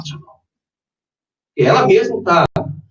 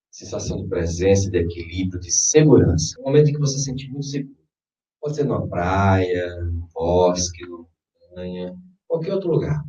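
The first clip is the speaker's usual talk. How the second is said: guided meditation. Acted. Leads a guided visualization.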